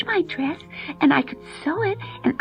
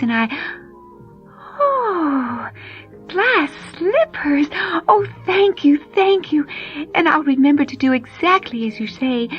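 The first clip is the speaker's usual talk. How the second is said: put-on overjoyed girl; 5 semitones higher than usual. Cinderella thanking her fairy godmother.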